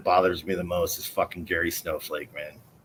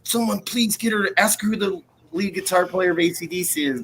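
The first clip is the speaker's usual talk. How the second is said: acted plea; 8 semitones higher than usual. Retells pleading with others for help.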